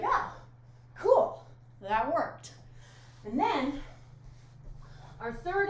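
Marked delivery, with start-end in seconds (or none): 0.0-2.5 high, loud delighted exclamation; pleased little surprise; excited. Pretend. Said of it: "Be like".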